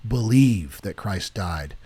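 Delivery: spoken prayer. Shown as a demonstration. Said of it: "Say it out loud".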